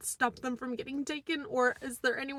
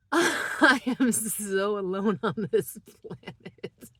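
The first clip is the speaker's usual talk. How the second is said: laughing through tears; 4 dB louder, slower than usual. Real, not acted. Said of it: "I'm laughing again 'cause I'm crying".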